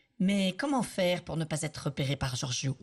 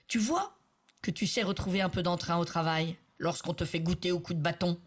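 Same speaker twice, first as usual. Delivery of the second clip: gloating. Acted. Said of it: "claironna Giorgio".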